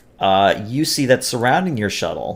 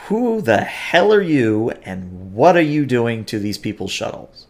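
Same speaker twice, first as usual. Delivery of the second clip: demanding. Acted. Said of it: "steps forward and demands".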